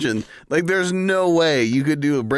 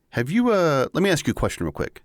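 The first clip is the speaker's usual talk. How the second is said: fast, pushy sales pitch; salesman voice; faster than usual. Pretend. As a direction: rattle it off like a pitchman. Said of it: "the whole, like, salesman voice".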